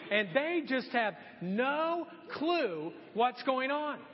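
high-pitched mock exasperation; hammed-up indignant rant; retold anger. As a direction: act fed up and offended, for comic effect. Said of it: "getting more angry at this point".

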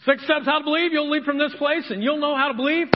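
sarcastic bright sales patter; mock salesman pitch. Pastor mocking easy six-step faith, sarcastic pitch. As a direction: parody a quick-fix preacher. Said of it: "I'm not gonna give you six steps".

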